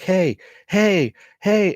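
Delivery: sharp high calls to get a stranger's attention; calling out. Retold or imitated. Calling out to passing woman.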